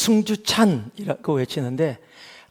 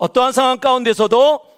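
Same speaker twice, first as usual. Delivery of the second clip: loud, high, forceful shout; 7 semitones higher, 7 dB louder than usual. Leading a congregation, the preacher calls them to shout, then gives a powerful shout. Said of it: "좀 힘있게 해봅니다. 정말로 외쳐봅니다".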